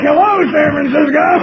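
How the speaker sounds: mock stage greeting. Nervous comic greets crowd.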